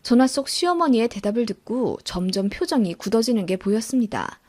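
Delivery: usual speaking voice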